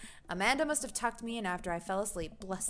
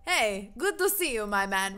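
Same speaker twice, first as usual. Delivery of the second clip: surfer bro voice; 4 dB louder than usual. Acted. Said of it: "he is Surfer Bro".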